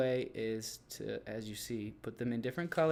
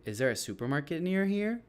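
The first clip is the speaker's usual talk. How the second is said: "here" going up at the end; question intonation; 3 semitones higher than usual. Shown as a demonstration. Teacher modelling question tune for students, rising at the end. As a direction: let the pitch climb through "near here". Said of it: "Going up at the end".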